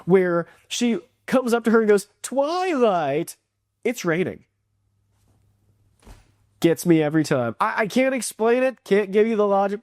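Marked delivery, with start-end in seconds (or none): 2.2-4.4 drawn-out name, then understated deadpan; mock deadpan, letting the line drop at the end; deadpan impression of Rarity. Fan quoting a favorite Rarity joke, imitated deadpan. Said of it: "her deadpan, awesome delivery".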